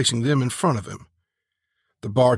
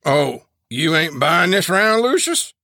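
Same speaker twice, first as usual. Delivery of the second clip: mock-innocent question; 5 semitones higher, 4 dB louder than usual. A narrator's reading. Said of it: "asked with a raised eyebrow".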